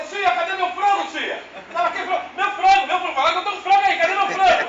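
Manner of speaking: put-on high, whiny boy begging; childish pleading. A boy begging the kitchen lady for his chicken, high and whiny. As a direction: plead like a kid denied his prize.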